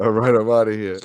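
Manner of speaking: joking robotic imitation of a glitch. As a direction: copy the crunchy robot sound. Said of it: "You have to say it like that".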